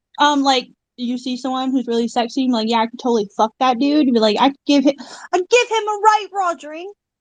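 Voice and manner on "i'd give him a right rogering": terrible put-on Cockney accent, pitched up. Retelling what you'd say about a man, in a bad Cockney accent. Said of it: "sorry for my terrible Cockney accent".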